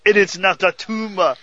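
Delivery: put-on Austrian action-star accent; lightly imitated Austrian accent; mock Austrian accent. Movie catchphrase joining the Austrian accent bit.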